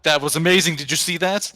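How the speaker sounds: hammed-up triumphant boast; flourishing declaration. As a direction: declare it grandly, showing off. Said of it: "in a flourish, declares".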